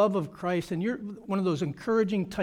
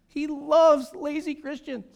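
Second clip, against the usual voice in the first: mocking Satan voice; 8 semitones higher, 6 dB louder, slower than usual. Mock voice after laugh.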